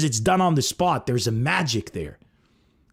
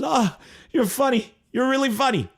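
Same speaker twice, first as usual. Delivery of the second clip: imitating Ray Liotta; 10 semitones higher than usual. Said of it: "Ray Liotta goes".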